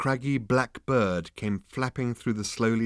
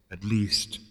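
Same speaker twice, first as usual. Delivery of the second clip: airy, hesitant afterthought; wistful ghostly voice. A narrator's reading. Disembodied voice correcting itself, wistful. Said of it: "it added wistfully".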